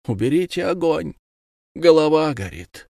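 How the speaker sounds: delirious pleading. A narrator's reading. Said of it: "твердила".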